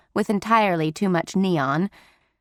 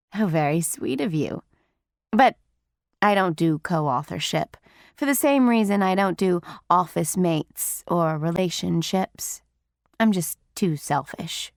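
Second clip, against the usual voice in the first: a hint of a raspy smoker's voice; deep raspy voice; 3 semitones lower than usual. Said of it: "in her deep, raspy voice".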